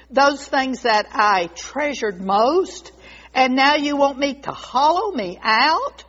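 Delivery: wounded reproach turning into a plea; anguished pleading. Acted. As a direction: beg your master for mercy. Bamboo begs not to be hollowed.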